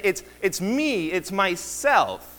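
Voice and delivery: "me" and "myself" stressed, the whole phrase slowed right down; emphatic me. Shown as a demonstration. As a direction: insist that it is you yourself. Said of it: "The point is to say".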